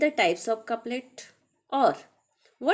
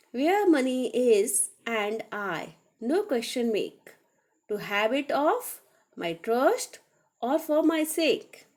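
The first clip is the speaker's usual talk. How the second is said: slow, measured verse reading; reciting a Shakespeare couplet in class; poem recital. Acted. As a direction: let each line of verse land slowly. Reads Shakespeare couplet aloud.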